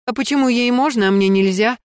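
громкий обиженный протест, выше и громче; вскинуться от несправедливости; возмущённо. Acted. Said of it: "Тут же вскинулась Ирина Марковна". (Ирина Марковна возмущённо вскидывается, громко и высоко)

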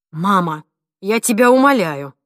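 can't take it anymore; exasperated outburst. A narrator's reading. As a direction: son exasperated with his mother. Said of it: "не выдержал Дуглас".

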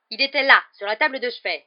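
very loud, high outburst; furious yell. A narrator's reading. Percy missing his badge from the bedside, yelling. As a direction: yell in fury at your brother. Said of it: "hurla-t-il".

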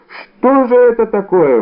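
high, desperate outcry; desperate cry. A narrator's reading. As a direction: wail it in full despair. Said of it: "воскликнул галантерейщик в полном отчаянии".

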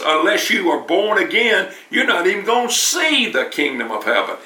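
firm, like a teacher laying down the law; strong authoritative voice. Retold or imitated. Jesus telling Nicodemus straight, with stern authority. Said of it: "with a strong, authoritative voice".

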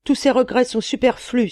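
booming loud threat; terrible genie voice. A narrator's reading. Old giant genie threatening the merchant, loud terrible voice.

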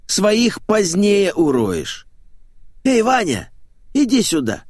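high, theatrical ordering voice; flamboyant showman, bossy. Acted. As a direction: call him over in a high voice. Flamboyant man bosses others about.

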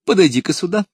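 high, loud royal summons; exclaiming king. A narrator's reading. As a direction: call him over with booming delight. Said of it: "воскликнул король".

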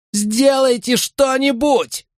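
very high, slow, breathless plea; gasping. Acted. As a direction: gasp it out, barely breathing. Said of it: "задыхаясь".

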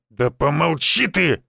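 slow, irritated snap; snapping at son. Acted. Village head snapping at his pushy son, irritated. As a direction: cut your son off sharply. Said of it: "огрызнулся на сына староста".

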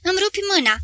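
high-pitched pained protest; crying out. A narrator's reading. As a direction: protest in pain without shouting. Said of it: "strigă Filip".

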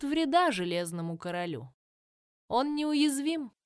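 lightly voiced tree crone; ancient dryad. Dryad voice, held.

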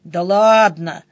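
slow, peaceable drawn-out reply; conciliatory. A narrator's reading. Denis making peace with his sister, slow and conciliatory. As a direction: draw it out to make peace. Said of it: "миролюбиво ответил Денис".

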